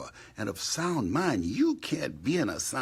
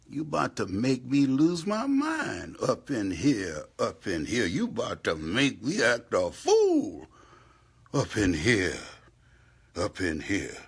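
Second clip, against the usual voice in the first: louder, building exasperation; exasperated; 4 dB louder than usual. Real, not acted. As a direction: let frustration spill out loud. Exasperated vernacular outburst.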